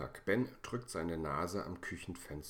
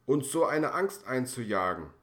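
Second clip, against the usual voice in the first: higher and louder, shocked scolding; mother tells off Ben for scaring them, higher and louder; aghast reproach; 6 semitones higher, 10 dB louder than usual. Acted. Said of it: "Frau Funke schnappt fassungslos nach Luft".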